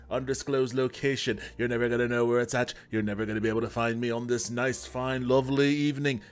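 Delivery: hammed-up showman brogue drifting from Irish; random put-on accent. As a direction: streamer greets chat in a mock Irish accent. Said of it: "decided to put on an accent right at the top".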